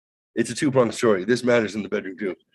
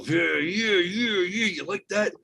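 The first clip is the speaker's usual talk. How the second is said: cooing to a cat; 9 semitones higher, slower than usual. Retold or imitated. Coaxing the cat while stretching it.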